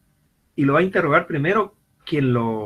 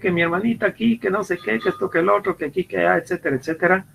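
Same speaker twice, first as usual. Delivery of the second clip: put-on higher, rushed childish excuse; child's excuse; 5 semitones higher, faster than usual. The kid explains the broken TV to his father, a higher, hurried childish voice. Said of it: "A ver".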